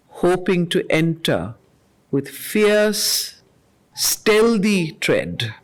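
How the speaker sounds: slow, measured reading of verse; poem recitation. Acted. Teacher reading Savitri lines to the class, measured and solemn. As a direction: let each line land with weight.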